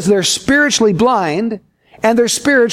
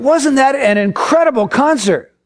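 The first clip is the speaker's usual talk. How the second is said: acted enthusiasm; 5 semitones higher than usual. Concertgoer enthusing to deaf man.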